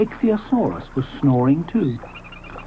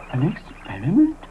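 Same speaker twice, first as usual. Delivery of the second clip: doubtful Ally. Acted. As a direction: echo it, doubtful. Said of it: "asked Ally".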